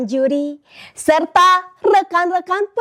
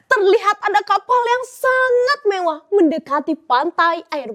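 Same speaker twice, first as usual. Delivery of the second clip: storytelling narration. Acted. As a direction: tell it like a storyteller on stage.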